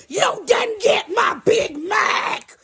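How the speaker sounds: very slow, high mock scream; child snapping. Girl raging over her missing burger, imitated screech. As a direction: stretch out each word in an acted tantrum. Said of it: "she fucking snapped".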